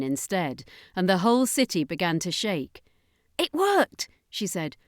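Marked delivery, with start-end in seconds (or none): 3.4-4.1 triumphant alien. Acted. Voiced, triumphant.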